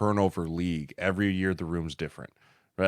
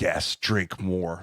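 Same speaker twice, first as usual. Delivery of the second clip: cult leader; much slower than usual. Retold or imitated. Acted cult leader answering follower.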